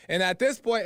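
ordinary talk

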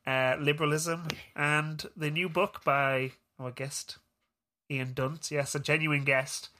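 talking with a pen in teeth. Real, not acted. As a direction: speak around a pen in the mouth. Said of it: "you put a pen in your mouth and continued to talk".

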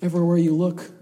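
ordinary delivery

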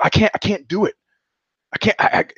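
a friend losing his nerve at the door, panicking; panicked pleading. Retold or imitated. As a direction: beg to be let off, half whispered. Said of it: "real animal panic in his eyes".

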